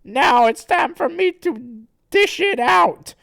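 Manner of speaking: high, loud cocky cartoon fighter; smug Blatchu. Blatchu turns on Sonichu, loudly smug. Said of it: "gets all kinda smug".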